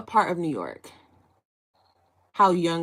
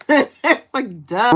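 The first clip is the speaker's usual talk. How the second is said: laughing mock duh, higher and louder; 5 semitones higher, 7 dB louder, much slower than usual. Fan's name joke on live stream, laughing mock duh. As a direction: tease it through a giggle.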